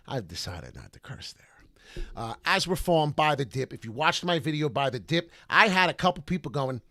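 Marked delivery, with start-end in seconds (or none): 0.1-2.0 whispered aside. Real, not acted. Aside after spelling out a curse.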